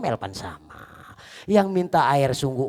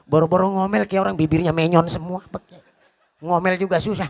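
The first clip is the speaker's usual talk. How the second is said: laughing; 3 semitones higher, 5 dB louder than usual. Real, not acted.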